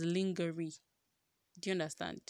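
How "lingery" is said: lingerie as LING-geh-ree; misread pronunciation of lingerie. Shown as a demonstration. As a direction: say lingerie just as spelt, hard g. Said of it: "I used to pronounce it in my head as".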